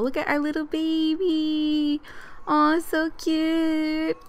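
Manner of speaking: cooing. Real, not acted. Player admiring the little baby, cooing. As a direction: gush slowly over something adorable.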